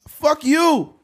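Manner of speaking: angry retort. Retold or imitated. Listener's angry retort voiced.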